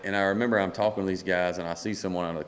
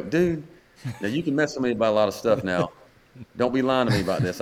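retold excited disbelief; 4 semitones higher, 4 dB louder than usual. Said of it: "And then I'm screaming".

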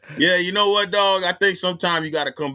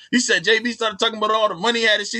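ordinary talk

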